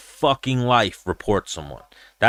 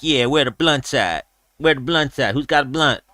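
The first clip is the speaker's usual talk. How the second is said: a touch higher, imitating a fighter; Nate Diaz; 4 semitones higher than usual. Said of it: "And he was like".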